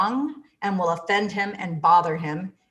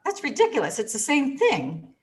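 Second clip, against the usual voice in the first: scoffing; 6 semitones higher than usual. Retold or imitated. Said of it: "I thought".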